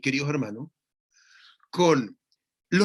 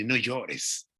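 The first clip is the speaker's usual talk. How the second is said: tender; 4 semitones lower, 3 dB quieter than usual. Retold or imitated. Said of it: "como tomar a uno de los más chiquititos cuando lloran".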